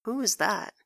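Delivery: just woken, creaky and groggy; creaky with sleep. A narrator's reading. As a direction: croak it out half asleep. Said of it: "His voice is creaky with sleep".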